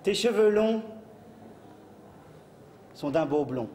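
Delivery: slow, grand poetry recital; hammy stage actor. Acted. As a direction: declaim it like a ham actor. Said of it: "Poème".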